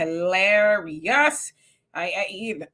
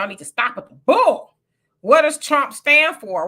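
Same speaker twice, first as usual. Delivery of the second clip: imitating a commenter; 5 semitones higher, 6 dB louder than usual. Host reads Cynthia's comment, mocking her louder. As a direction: throw her question back in a sassy put-on voice.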